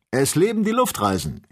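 high, loud cry of joy; jubilant cheer. A narrator's reading. Joe cheering about balloon travel to his friends, jubilant shout. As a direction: cheer it out like a delighted adventurer. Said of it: "jubelte Joe".

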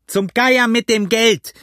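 high, drawn-out angry yell; slow, furious high shout; cursing. A narrator's reading. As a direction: swear in loud impatience. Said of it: "fluchte der Blinde".

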